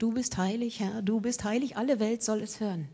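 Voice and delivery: relaxed, hand in pocket, no reverence; casual, offhand. Shown as a demonstration. Preacher mimicking careless worshippers, offhand and casual. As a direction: toss the song off lightly, as if chewing gum. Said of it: "ganz lässig und ganz locker".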